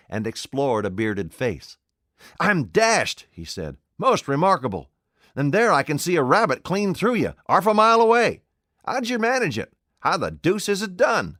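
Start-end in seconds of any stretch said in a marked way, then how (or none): 2.4-11.4 put-on high, loud, wondering old tramp; a tramp who can't believe his eyes; astonished tramp. A narrator's reading. Tramp Marvel to the invisible man, amazed and loud.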